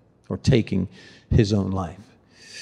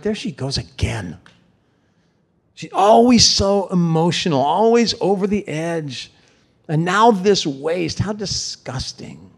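disdainful inner sneer; 6 semitones higher than usual. Retold or imitated. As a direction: mutter the scorn under your breath. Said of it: "Judas might have been saying in his heart".

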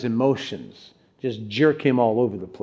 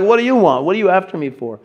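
"What do you want?" pitched up, then falling; questioning inflection; 4 semitones higher, faster than usual. Acted. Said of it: "I put the inflection on it".

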